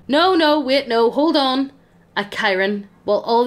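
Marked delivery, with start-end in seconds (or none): 0.1-1.7 higher and louder, panicked protest; panicked scream. Acted. A skeleton screaming to stop the child. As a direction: cry out to stop her in a rush.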